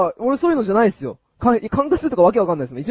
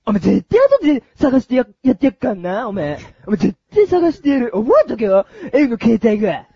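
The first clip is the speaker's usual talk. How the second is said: delinquent tough talk; 3 semitones higher than usual. Pretend. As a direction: yell revenge after him. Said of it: "ヤンキーをやります".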